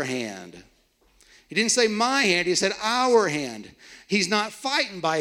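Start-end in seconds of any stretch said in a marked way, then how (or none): 1.5-3.7 our slowed and leaned on against my; stress on our. Shown as a demonstration. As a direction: hit our, let my go light. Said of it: "don't miss that".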